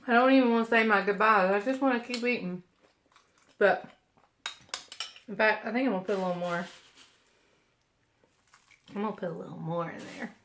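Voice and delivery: rushed words between bites; chewing noisily. Real, not acted. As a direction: mouth full of granola. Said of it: "I'm gonna keep eating".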